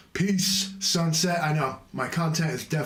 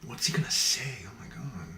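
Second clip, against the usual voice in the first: mock viewer awe; 4 dB quieter than usual. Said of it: "they're like".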